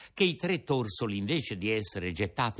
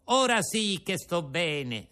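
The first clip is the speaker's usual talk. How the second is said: gloating; 6 semitones higher, slower than usual. Acted. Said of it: "disse gongolando".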